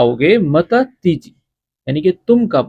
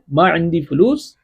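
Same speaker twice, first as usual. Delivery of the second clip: Arabic said slowly and clearly for learners; slow model phrase; slower than usual. Shown as a demonstration. Teacher modelling Arabic for students, slow and clear. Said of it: "معافی فلوس".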